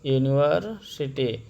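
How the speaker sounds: यूनिवर्सिटी said with a yoo at the start; यूनिवर्सिटी with a y sound first; model word. Shown as a demonstration. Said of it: "हमने लिख दिया यूनिवर्सिटी".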